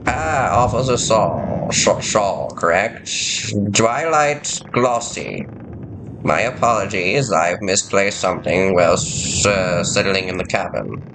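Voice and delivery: fussy science officer. Acted. Voices the science team member.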